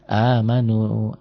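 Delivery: "amanu" slow, straight to the long u; skipped letter. Shown as a demonstration. Teacher showing the letter jumped over, slow drawn-out reading. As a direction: draw out "amanu" without the last alif. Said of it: "dilompat aja nggak dibaca".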